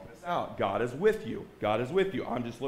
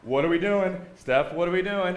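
retold panic, louder; mock-frantic plea to a partner; freaking out; 2 semitones higher, 6 dB louder than usual. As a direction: act out freaking out, insistent. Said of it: "freaking out".

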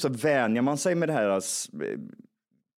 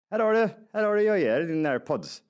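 eager handing over; 8 semitones higher than usual. Retold or imitated. Handing back the lost airpods.

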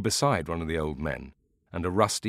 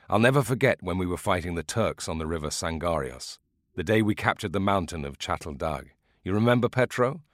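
lightly voiced old man recalling the war; a hint of an old veteran; old veteran starting his tale to a friend; old soldier storyteller. Old beekeeper tells war story.

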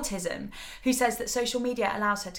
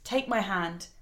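holding back tears. Real, not acted. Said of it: "I'm gonna try not to cry".

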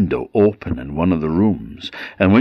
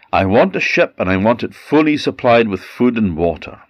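firm, slightly raised resolve; determined Tatterhood; 3 semitones higher than usual. Acted. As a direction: lay down the plan like a command.

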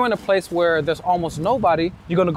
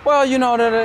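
higher, louder gasp-in speech; inhaled demo; 6 semitones higher, 4 dB louder than usual. Shown as a demonstration. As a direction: speak while sucking air in. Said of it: "or in your inhale, you're like".

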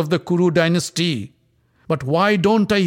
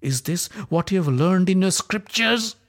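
much higher, louder furious accusation; raging; 10 semitones higher, 5 dB louder than usual. Acted. Draupadi rebukes the silent Kuru elders, raging. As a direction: shame the elders with fury. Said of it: "transformed into pure rage".

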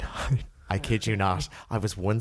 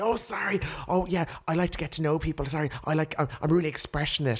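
higher, gushing mimic of the date; imitating apologetic date; 6 semitones higher than usual. Mocking the date's gushing apology for friends, higher. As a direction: gush an eager apology. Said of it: "He's like".

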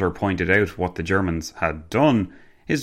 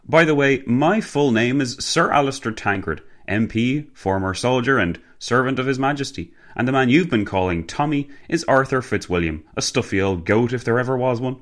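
higher-pitched, grand gentlemanly voice; hearty gentleman, introducing himself; 5 semitones higher than usual. Acted. Gentleman formally introducing himself and his friend, jovial. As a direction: announce it with jovial pomp.

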